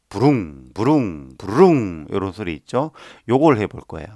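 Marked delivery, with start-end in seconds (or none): 0.1-1.4 lips buzzing like an engine revving; motorbike imitation. Shown as a demonstration. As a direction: make a motorbike rumble with your mouth. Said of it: "우리 오토바이 소리 알죠?".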